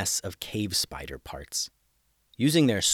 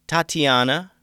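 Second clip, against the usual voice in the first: firm interruption; 6 semitones higher, 8 dB louder than usual. A narrator's reading. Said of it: "interrupting her".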